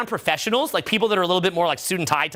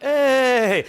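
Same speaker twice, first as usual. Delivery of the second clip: high, louder open call; demonstrated loud hey; 4 semitones higher, 5 dB louder than usual. Shown as a demonstration. Coach comparing room sound with home viewing, open call. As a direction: call it out as a sample. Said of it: "it sounds like".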